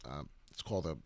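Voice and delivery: hiccup breaking the words. Real, not acted. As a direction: talk through the hiccups. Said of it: "excuse me, I'm hiccuping".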